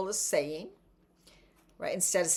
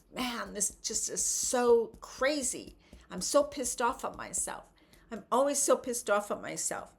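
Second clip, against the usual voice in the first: mock frustrated venting. Shown as a demonstration. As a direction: vent like you're sick of being stuck. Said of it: "yelling because you're frustrated".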